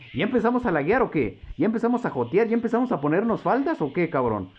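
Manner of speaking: high, mocking jeer at the opponent; mocking taunt. Real, not acted. Gamer mocking a lagging opponent, high jeering voice. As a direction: needle him with a sneering question.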